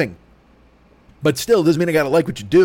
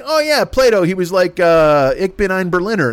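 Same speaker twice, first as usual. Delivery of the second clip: clueless bro; 5 semitones higher, 3 dB louder than usual. Retold or imitated. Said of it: "Romaine is like".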